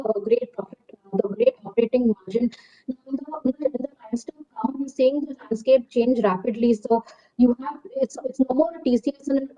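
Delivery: muffled, as if through a hand. Real, not acted. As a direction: talk through a covered mouth. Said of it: "your voice is very muffled".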